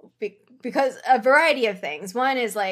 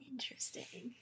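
whispering; 21 dB quieter than usual. Real, not acted. Quiet aside.

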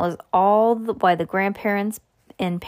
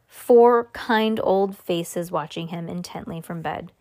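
ordinary delivery, nothing marked

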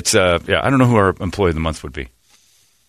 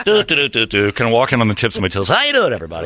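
white guy voice; faster than usual. Retold or imitated. Host mocking the white guy walk for co-hosts, light carefree white guy voice. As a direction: hum along, then greet Bob like a stereotypical white guy. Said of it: "I'm like".

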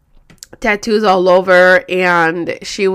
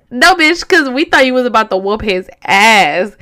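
mock indignant retort; 5 dB louder than usual. Retort to friend in story.

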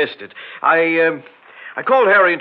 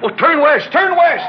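high, loud command; urgent shout; 11 semitones higher, 6 dB louder than usual. Acted. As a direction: bark the direction. Panicked order in the car.

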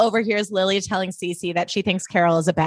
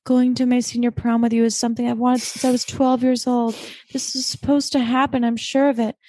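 lightly voiced wistful Blair; 3 semitones higher than usual. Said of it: "And she's like".

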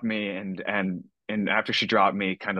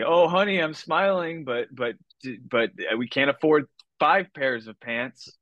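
strained smiling mom; 5 semitones higher than usual. Retold or imitated.

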